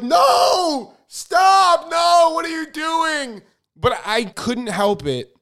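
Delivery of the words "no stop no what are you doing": high, panicked mock scream; hammed-up high, loud panic; inner screaming. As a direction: scream at yourself in horror, way up high. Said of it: "I'm in my head screaming".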